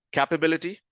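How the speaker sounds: CAP-uh-bil-i-ty, first vowel as in "cat"; variant pronunciation. Shown as a demonstration. Teacher quizzing learners on versions, "capability" said with an opening CAP. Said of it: "different versions of the pronunciation of this word".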